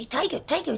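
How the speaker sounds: cartoon rabbit character voice. Describing an old cartoon, doing the Crusader Rabbit voice. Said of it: "This was Crusader Rabbit".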